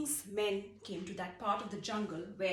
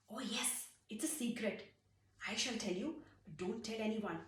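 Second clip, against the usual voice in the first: confiding secret; 5 dB quieter than usual. Acted. Sharing a secret.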